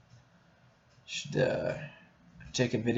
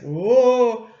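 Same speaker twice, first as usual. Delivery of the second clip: a loud, high "Whoa!"; amazed exclamation; 10 semitones higher, 10 dB louder than usual. Retold or imitated. Vlogger imitating his rush on going back to porn, loud and high. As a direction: blurt it out like a sudden rush. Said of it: "it's like".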